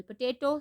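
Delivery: "Potato" stressed on TA; careful teacher's "Potato", weight on TA; second-syllable stress. Shown as a demonstration. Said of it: "second syllable".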